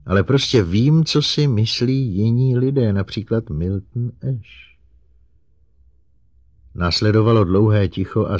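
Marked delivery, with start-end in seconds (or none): 0.0-4.8 high, raised, pleading robot voice; high-pitched, eager-to-help robot; earnest robot. Acted. Narrator voices Herbie the robot.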